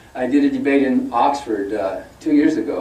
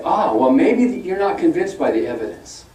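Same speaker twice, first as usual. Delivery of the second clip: slow, earnest mock pleading; a hint of an earnest apologist; mimicking a debate opponent; 3 semitones higher than usual. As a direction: put on the opponent's pious tone, drawn out. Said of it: "will say".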